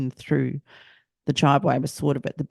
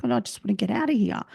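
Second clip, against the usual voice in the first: hushed, breathless disbelief, then rushing on; frantic under-the-breath plea; panicked whisper; 9 semitones higher, 3 dB quieter, faster than usual. Retold or imitated. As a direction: whisper it like you're trapped. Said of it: "And I'm like".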